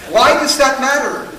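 ordinary talk

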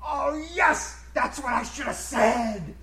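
high, slow eureka; light up as the comeback hits you; sudden realization. Retold or imitated. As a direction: George lighting up at his missed comeback. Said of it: "his eyes light up".

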